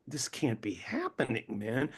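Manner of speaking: hushed whisper of disbelief. Retold or imitated. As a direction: breathe it like a secret to yourself. Inner thought meeting the actor.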